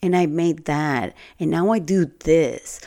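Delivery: a light sing-song send-up of show-offs; imitating people who brag about themselves; mock braggart. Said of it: "those people that say".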